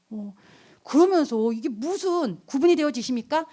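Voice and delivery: ordinary delivery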